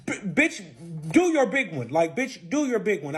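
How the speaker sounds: acted-out quarrelsome taunt; retold dare.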